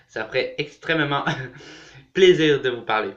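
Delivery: words round a mouthful of snack; snacking while talking. Real, not acted. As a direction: talk while nibbling something. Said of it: "Je grignote en même temps".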